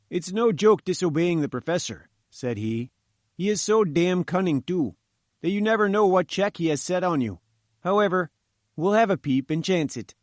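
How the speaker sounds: wary grumble about his boss; lightly voiced engineer. Engineer warns visitors about the cunning professor, lightly nervous.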